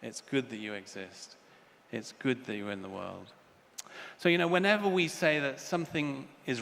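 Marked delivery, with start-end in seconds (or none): 0.0-3.3 loving words. Retold or imitated. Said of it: "Love always says".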